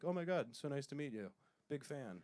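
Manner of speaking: breathless fanboy, trailing soft; starstruck gushing. Retold or imitated. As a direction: gush like meeting a hero. Starstruck greeting to athlete.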